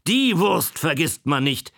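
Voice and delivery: high and loud proud exclamation; mock-proud old man calling out. A narrator's reading. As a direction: insist proudly, almost calling out. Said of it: "rief er".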